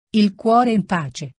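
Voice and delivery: slow, scornful repeat of "Il cuore in pace"; bitter echo. Acted. Renzo mocking Lucia's words, slow and bitter. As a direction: throw her phrase back at her, drawn out. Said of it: "questa parolaccia".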